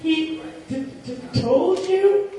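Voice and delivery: hesitant nervous stutter. A narrator's reading. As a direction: stammer it slowly, nervously. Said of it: "added in a nervous tone".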